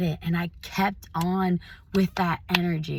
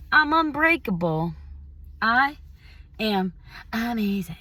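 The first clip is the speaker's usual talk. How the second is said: self hype-up. Shown as a demonstration. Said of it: "Be like".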